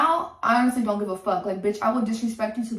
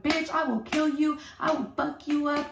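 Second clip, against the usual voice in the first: higher-pitched mocking imitation of a threat; 5 semitones higher, 3 dB quieter than usual. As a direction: mimic her threatening you, pitched up. Retells girlfriend's threat over phone.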